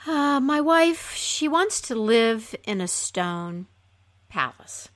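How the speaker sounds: slow, mildly sad reply; a touch of reluctant sorrow, slowly. Acted. Husband reluctantly tells flounder the wife's wish, mildly sad. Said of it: "said the man sadly".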